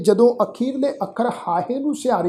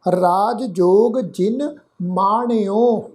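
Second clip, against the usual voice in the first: slow, measured verse reading; scripture recitation; much slower than usual. Shown as a demonstration. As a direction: recite each word slowly and distinctly. (ਹੌਲੀ, ਠਹਿਰ ਕੇ ਗੁਰਬਾਣੀ ਪਾਠ)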